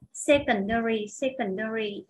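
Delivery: "Secondary" stressed on SEC; teacher's drill of "Secondary", stress up front; stress on first syllable. Shown as a demonstration. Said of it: "nó nhấn âm một set".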